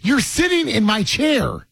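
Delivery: high, drawn-out complaint. Real, not acted. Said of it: "He sounds like an old man".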